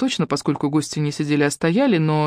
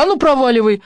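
louder, higher get-out yell; angry shout; 8 semitones higher, 5 dB louder than usual. A narrator's reading. Irka yells at the visitors to leave. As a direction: chase him out.

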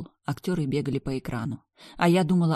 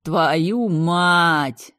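much louder curse; mental shout; 2 semitones higher, 8 dB louder than usual. Acted. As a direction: yell it in panic. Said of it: "заорал Дейтон в мыслях".

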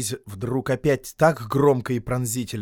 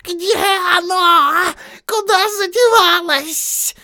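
much higher, louder, slow creature wail; frantic Gollum; 10 dB louder, slower than usual. Acted. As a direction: search in a panic, whining. Gollum searching for the ring.

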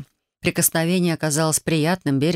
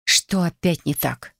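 slow irritated grumble; rolling eyes; slower than usual. A narrator's reading. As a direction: grumble it with an eye roll. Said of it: "закатила глаза и проворчала".

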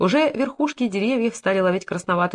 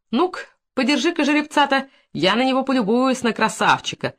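eager admiring; 5 semitones higher than usual. Acted. Stableman admiring the horse.

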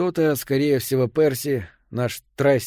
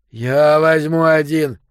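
loud call; 3 semitones higher, 7 dB louder, slower than usual. A narrator's reading. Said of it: "сказал Йо".

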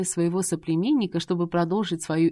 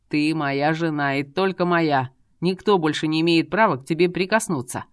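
menacing threat; 2 semitones lower than usual. Acted. Jealous dragon warns his wife off other men, menacing.

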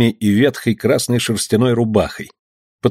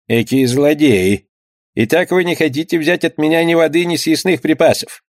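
protesting skipper; 5 semitones higher than usual. Acted.

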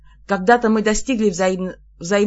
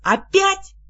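sharp, much higher cry of alarm; startled shock; 11 semitones higher, 6 dB louder, much slower than usual. A narrator's reading. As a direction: recoil with a shocked, high yelp. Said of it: "чуть не шарахнулась прочь".

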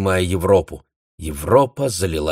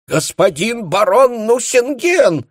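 high, slow, ringing announcement; announcing shout; 5 dB louder, slower than usual. A narrator's reading. Contenson announcing the baron in a ringing call. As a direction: call out the name like a herald.

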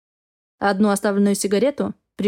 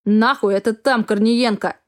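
shouting drill sergeant; slower than usual. Acted. Captain orders march.

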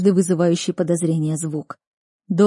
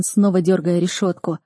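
usual speaking voice

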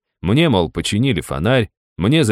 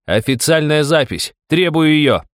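loud demand; 9 semitones higher, 4 dB louder than usual. A narrator's reading. Demanding official record.

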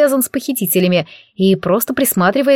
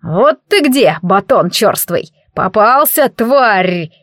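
rumbling growl; slower than usual. Acted. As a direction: growl it as a beast that finally caught its prey. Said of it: "Прорычал". (оборотень рычит на колобка, слегка громче)

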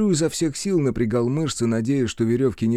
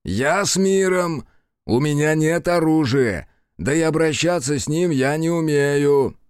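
calling out; 4 semitones higher than usual. Acted. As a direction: friendly call from afar. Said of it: "приветственно крикнул". (приветственный оклик)

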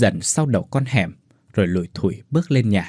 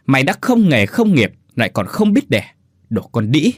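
mother-in-law roaring abuse; furious roar; 3 semitones higher than usual. Acted. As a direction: hurl insults with full fury. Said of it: "mà gầm lên".

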